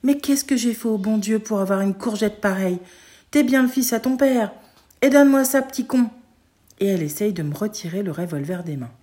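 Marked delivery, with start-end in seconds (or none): 0.0-6.1 building to a loud, high angry shout; shouting mother. Acted. Mother yells at her son to hand over the gun. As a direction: scold the kid, rising to a yell. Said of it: "elle me crie dessus".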